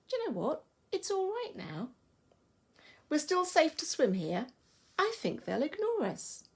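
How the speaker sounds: high, rational reassurance; calm reassurance. Acted. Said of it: "who's very calm".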